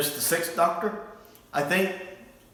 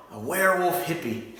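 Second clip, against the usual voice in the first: laughing; 4 semitones higher than usual. Real, not acted. Amused by werewolf hippie idea.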